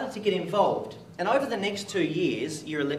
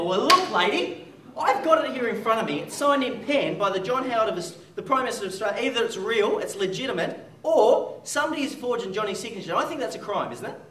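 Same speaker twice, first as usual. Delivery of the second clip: indignant retort; 6 semitones higher, 4 dB louder than usual. Retold or imitated. Arguing with prime minister's office.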